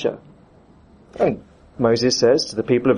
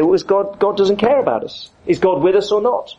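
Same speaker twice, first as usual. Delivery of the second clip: complaining Israelites; 6 semitones higher than usual. Retold or imitated. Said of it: "And they say".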